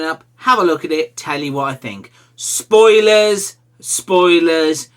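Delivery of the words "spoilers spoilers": loud high spoiler warning; loud warning call. Acted. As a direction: call it out like an alarm.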